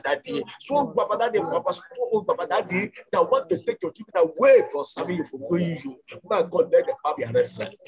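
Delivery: rising, insistent prayer with pleading repeats; fervent prayer. Acted. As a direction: pray hard over the congregation, calling on God. Leads fervent congregational prayer.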